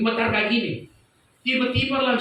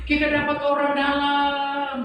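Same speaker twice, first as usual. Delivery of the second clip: high, drawn-out mock yell; imitated long high calls, each word stretched; retold triumphant shout; 5 semitones higher, slower than usual. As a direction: holler out a catch to the crowd, imitating him. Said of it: "Mas itu berteriak begini".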